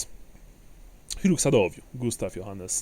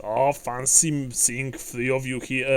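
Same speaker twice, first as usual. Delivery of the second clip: hearty dwarf greeting, a little higher; lightly voiced jovial dwarf; 3 semitones higher, 5 dB louder than usual. Dwarf greets old companions, heartily.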